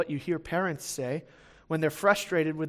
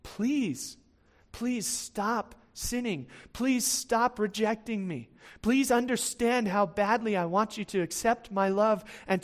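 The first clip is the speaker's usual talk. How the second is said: earnest plea; 3 semitones higher, slower than usual. Acted. God to Israel, stop rejecting me, earnest pleading. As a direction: plead slowly, as if acting God's longing. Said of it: "it's this attitude that God is saying".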